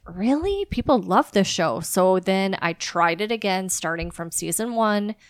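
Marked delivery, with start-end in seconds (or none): 0.1-1.8 mock disbelief. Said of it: "And I was like".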